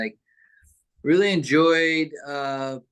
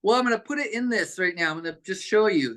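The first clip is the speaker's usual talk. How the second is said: lightly voiced grandma, higher and quick; quick, higher retold reply from a busy grandma; 5 semitones higher, faster than usual. Grandma explaining to her grandkid, lightly voiced and quick. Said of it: "She goes".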